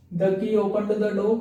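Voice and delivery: very slow, word by word; slow dictation. Shown as a demonstration. Teacher repeating the example for students, slow dictation. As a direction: repeat it slowly so they can write it. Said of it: "repeated slowly for dictation".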